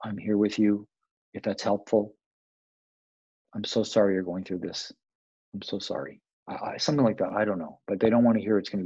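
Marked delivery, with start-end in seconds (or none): 0.0-6.2 gentle sympathy. Shown as a demonstration. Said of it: "What do they wanna hear?".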